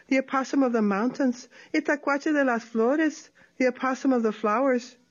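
sly sing-song opossum boasting; lightly voiced sly opossum. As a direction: tease the coyote with a light lilt. Tlacuache voiced in story.

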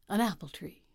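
hushed whisper. A narrator's reading. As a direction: breathe it like a secret. Hushed reveal in story.

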